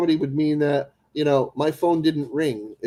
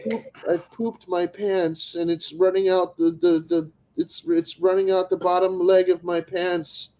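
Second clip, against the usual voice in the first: mock distressed victim. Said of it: "pranking scam caller".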